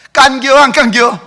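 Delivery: loud, high, laughing Chungcheong quip; Chungcheong dialect. Retold or imitated. Pastor jokes to congregation, loud laughing Chungcheong accent. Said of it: "충청도 말은 간단하게 끝납니다".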